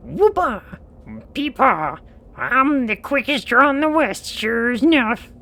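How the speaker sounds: high Western twang shout; cowboy twang. Acted. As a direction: whoop it like a proud cowpoke. Cowboy voice continues.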